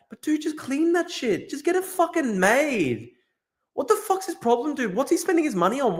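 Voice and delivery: exasperated plea. Real, not acted. Exasperated after sad news.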